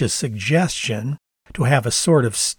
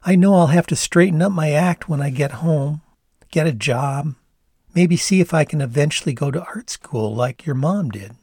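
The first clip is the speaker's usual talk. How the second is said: put-on Canadian accent; 3 semitones higher than usual. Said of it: "She sighed, resigned".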